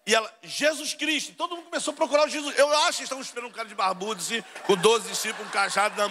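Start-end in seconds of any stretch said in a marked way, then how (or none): 0.4-1.3 high, audible name call; barista calling out. Retold or imitated. Barista calls the name out again. (atendente chamando o nome, voz aguda)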